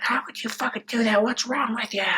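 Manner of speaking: mock a narcissist's offended squeal; outraged narcissist. Narcissist kicked in the shin, whiny high outrage. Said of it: "they're like".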